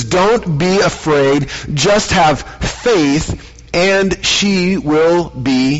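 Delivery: steady him gently; reassuring. Acted. Jesus calming the grieving father, slow reassurance.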